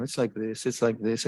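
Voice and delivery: rattled off without sharpness; offhand repetition. Shown as a demonstration. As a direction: toss it off as empty habit. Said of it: "It can't just be language, you, you know".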